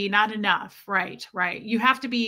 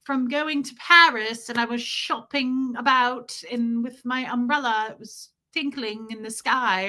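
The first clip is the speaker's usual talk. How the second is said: British impression; 3 semitones higher than usual. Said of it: "or however they say it".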